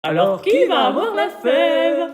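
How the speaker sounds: laughing. Acted. Playful host teasing at table.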